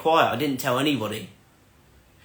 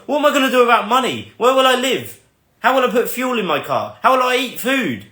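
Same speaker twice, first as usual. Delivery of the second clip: higher, faster, anxious questions; panicked thoughts; 7 semitones higher than usual. Retold or imitated. Retelling panicked thoughts after AJ says quit, higher and faster. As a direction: rattle off the worries in a panic. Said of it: "All these things started running around in my mind".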